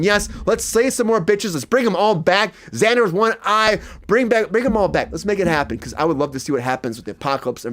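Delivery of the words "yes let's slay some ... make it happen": excited cheer. Retold or imitated. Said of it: "I am screaming".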